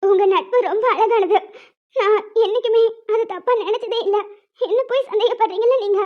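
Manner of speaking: tearful, wounded insistence; crying. Acted. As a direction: insist through tears that you never doubted. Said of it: "சரி, அழாத, விடு". (அழுகையோடு பேசுதல்)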